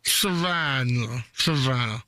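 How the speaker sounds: slow repeat. Pretend. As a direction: drag the word out. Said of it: "I have stuff in my mouth".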